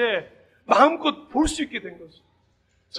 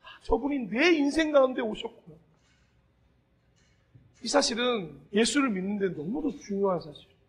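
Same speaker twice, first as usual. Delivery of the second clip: usual speaking voice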